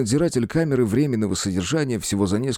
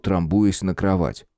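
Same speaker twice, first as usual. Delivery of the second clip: plain reading voice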